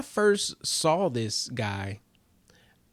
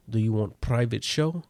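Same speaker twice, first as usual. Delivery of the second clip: mock Russian magician; Russian accent. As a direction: offer it in a light Russian accent. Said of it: "He has to be Russian".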